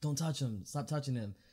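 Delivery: insistent, acted-out mild half-yell. Retelling yelling at a cop who pushed a friend: imitating own yelling. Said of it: "I was yelling at him".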